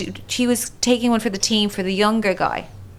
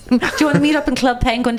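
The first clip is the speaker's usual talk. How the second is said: mock young girl; 2 semitones higher, faster than usual. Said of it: "saying casual shit like that".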